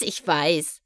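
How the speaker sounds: a contented chuckle; happy giggle. A narrator's reading. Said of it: "kicherte Skystar glücklich".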